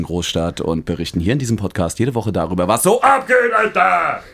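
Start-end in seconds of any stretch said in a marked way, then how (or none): 2.7-4.2 mock street slang. Podcast intro catchphrase, mock slang.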